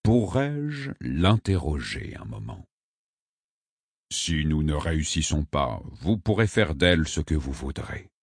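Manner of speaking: mildly soft, polite request; understated respectful diplomacy; gentle, respectful. A narrator's reading. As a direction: ask with quiet deference. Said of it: "d'un ton doux, plein de respect".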